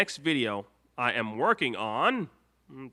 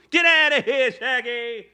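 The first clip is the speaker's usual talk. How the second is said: much louder, higher mock yell; mock shout; 9 semitones higher, 6 dB louder than usual. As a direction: yell Shaggy off the stream. Host chases Shaggy away.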